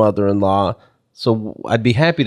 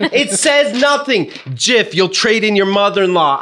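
mock baffled reader; 13 semitones higher than usual. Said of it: "I go".

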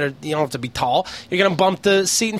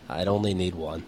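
mock speech; 13 semitones lower, 9 dB quieter than usual. Shown as a demonstration. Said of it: "That'd be my presidential speech".

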